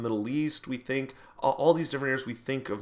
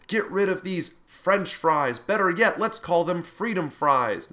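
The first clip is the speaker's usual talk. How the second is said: rally speech; 6 semitones higher, 4 dB louder than usual. Retold or imitated. Imitating a nationalist politician.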